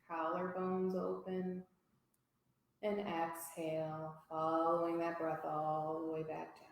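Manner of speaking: pace each phrase to a long inhale and exhale; guided breathing. Real, not acted. Yoga teacher leading a three-part breath for the class, calm guided breathing.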